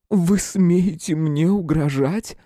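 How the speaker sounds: high, slow, indignant woman's voice; outraged woman. A narrator's reading. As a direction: hurl the question back at him, offended. (возмущённая женщина, высоко и медленно)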